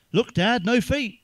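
put-on high, excited little boy calling out; a boy showing his dad his bike trick, high and excited; excited kid. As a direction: squeal it like a proud kid showing off.

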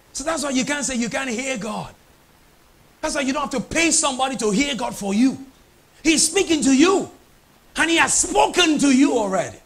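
rising to a loud, high declaration; preacher driving the point home; impassioned preaching. Real, not acted. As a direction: build to full voice for the congregation. Preaches at full force.

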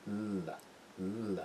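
"ل" with the tongue flattened on the palate; isolated clear "ل", air round the tongue's sides. Shown as a demonstration. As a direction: demonstrate a front, lively "ل". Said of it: "زبون رو میاریم از پایین".

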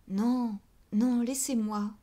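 breathless, stammering no, no; stammered plea. Acted. Denise stammers at her friend, begging to be left alone. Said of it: "bégayait Denise".

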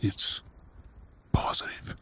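barely there, as if afraid to say it; hushed disbelief; stunned whisper. Acted. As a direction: breathe the word out with no voice. Repeating the test result in shock.

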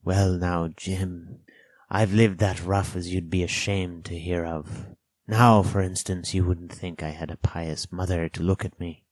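lightly voiced rough castaway; Ben Gunn, confiding castaway. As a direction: confide it like a rambling old sailor.

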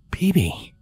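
a father soothing his frightened son, soft and calm. A narrator's reading. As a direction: coax him out softly. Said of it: "in a soft, soothing tone".

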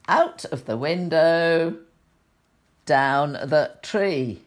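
put-on gentle storybook reading for children; sweet old lady. A narrator's reading. Reads picture book to children.

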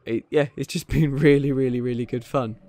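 laughing through the words; smiling voice. Real, not acted. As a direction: grin while saying it. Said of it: "hear the smile on my face".

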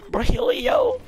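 "Brolio" flipped up high; high, playful try at "Brolio"; high-pitched variant. Pretend. Same name tried a third way.

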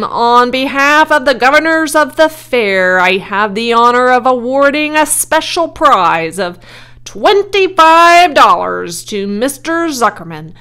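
loud, high, sustained ceremonial address; loudspeaker announcer. A narrator's reading. Loudspeaker awards a special prize, booming formal announcer. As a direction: project it over a fairground crowd. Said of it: "continued the loudspeaker".

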